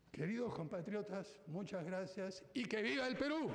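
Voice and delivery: rousing closing shout; booming balcony speech. Real, not acted. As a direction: ring it out to the nation. Closing cheer to the nation.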